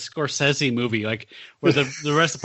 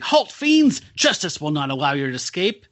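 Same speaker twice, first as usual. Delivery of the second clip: melodramatic vigilante shout, settling as it goes; Hangman's battle cry; 2 semitones higher than usual. Retold or imitated. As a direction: cry out a challenge like a comic-book crusader. Acts out Hangman's villain-stopping cry.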